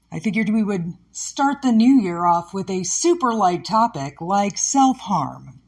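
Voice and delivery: oversell it with dry sarcasm; sarcastic. Real, not acted. Host introducing a super light topic, sarcastically. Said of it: "catch the sarcasm in my voice".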